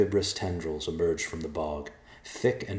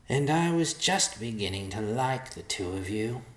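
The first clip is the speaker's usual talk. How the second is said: high-pitched vulture character voice; regretful vulture; 5 semitones higher than usual. A narrator's reading. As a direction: speak high as the rueful bird.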